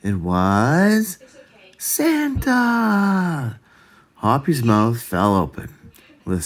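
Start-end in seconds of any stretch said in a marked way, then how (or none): 1.8-3.6 high, drawn-out amazed exclamation; surprised. A narrator's reading. Narrator revealing Santa in the woods, amazed. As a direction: gasp out the name in disbelief.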